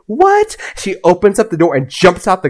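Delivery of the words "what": high-pitched mock-panicked shriek; retold shocked outcry. Friend hearing the van will blow up, high mock shock. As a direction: imitate a friend's startled yelp.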